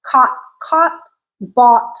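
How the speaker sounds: "caught" and "bought" with the same open ah; merged vowel. Shown as a demonstration. Teacher showing American sound-alike words, merged ah vowel. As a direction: say "caught" like "cot", "bought" like "bot". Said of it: "they may sound the same".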